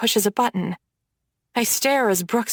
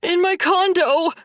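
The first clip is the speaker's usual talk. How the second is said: squealing; 8 semitones higher than usual. Acted. Brooks squeals out where the safe is. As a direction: squeal it out in panic. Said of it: "he squeals".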